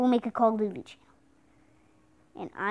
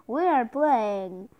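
announcer voice; slower than usual. Acted. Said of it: "that was my best announcer voice".

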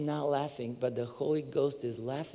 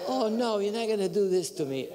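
high, dismayed protest; mock dismay; 6 semitones higher, 3 dB louder than usual. Seeker to the collapsed minister, comic high protest. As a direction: wail it in comic disbelief.

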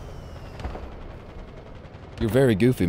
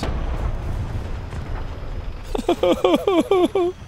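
high squeaky wheeze laugh; 4 dB quieter than usual. Pretend. Mock sobbing laugh.

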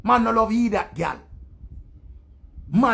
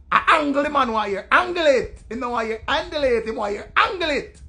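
raised, louder insistent patois; heated demand; 4 semitones higher, 3 dB louder than usual. Acted. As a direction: hammer the demand home in a higher voice.

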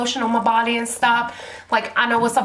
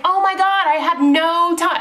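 mock dismay; 6 semitones higher than usual. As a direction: replay the shock of being rushed. Bed started before lotion done.

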